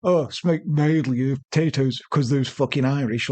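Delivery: lightly mocked Irish accent; bad Irish accent. Victims describing the attacker, in a lightly mocked Irish accent. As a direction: put on a rough, unconvincing Irish accent. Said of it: "was it a bad Irish accent?".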